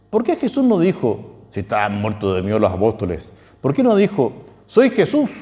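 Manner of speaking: pitched well up, questioning. Retold or imitated. Rhetorical question voiced for Aquinas.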